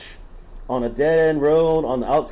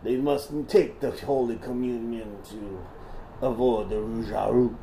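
put-on Southern accent; 3 semitones higher than usual. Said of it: "Should I stop doing the voice?".

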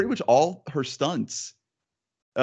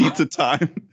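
gruff tinny action figure; 4 semitones higher, 5 dB louder than usual. Retold or imitated. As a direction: toy catchphrase voice, louder and brighter. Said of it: "My action figure did say pizza time".

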